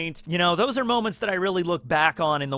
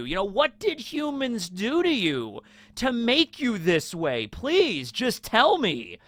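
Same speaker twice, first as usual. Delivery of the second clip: higher, pleading, slowing to a plea at the end; indignant pleading prince; 5 semitones higher than usual. Retold or imitated. Prince pleading with the villain about his mother, higher and slowing. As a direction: beg him to explain, hurt and indignant. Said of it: "he's indignant and he's enraged".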